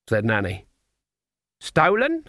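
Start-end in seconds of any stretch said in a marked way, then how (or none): 1.6-2.2 shocked. Acted. Nanny shocked at lost money.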